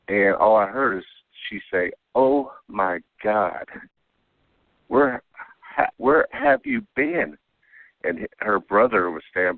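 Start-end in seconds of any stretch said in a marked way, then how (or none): 2.1-7.4 slow, drawn-out disbelief rising very high; imitating a woman who can't believe her eyes, slowly; retold stunned gasp. Woman stunned to see him.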